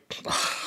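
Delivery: quiet, voiceless sigh imitating exasperation; annoyed sigh. Podcaster acting out Joel as Ellie pockets the gun, annoyed sigh. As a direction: let out a soft mock-annoyed sigh. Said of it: "like, so annoyed".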